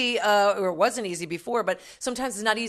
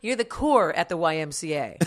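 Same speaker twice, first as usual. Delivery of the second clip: ordinary talk, nothing marked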